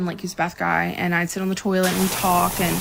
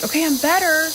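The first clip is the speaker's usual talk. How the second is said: retold self-reassurance; 9 semitones higher, 3 dB louder than usual. Acts out telling herself she is better.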